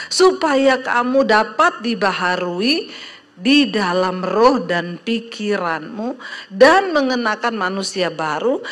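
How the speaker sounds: measured, emphatic verse reading with swooping phrase ends; scripture reading. Real, not acted. Preacher reading a verse to the congregation, emphatic recitation. Reads the Bible verse aloud.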